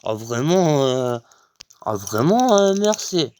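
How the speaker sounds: high, loud relieved thanks; gushing thanks. Retold or imitated. Thanking the guard, high and gushing. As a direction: overflow with gratitude. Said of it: "je fais".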